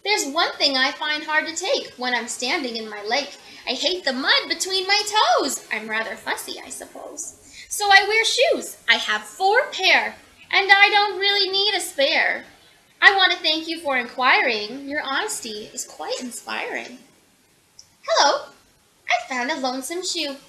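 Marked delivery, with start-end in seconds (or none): 0.0-6.6 a touch of a fussy hippo, louder at times; mildly hammed-up hippo; lightly voiced hippo. Hippo character answers. 6.6-7.4 whisper. Acted. Fussy hippo admits quietly. 7.7-17.0 a touch of a fussy hippo, louder at times; mildly hammed-up hippo; lightly voiced hippo. Hippo character answers.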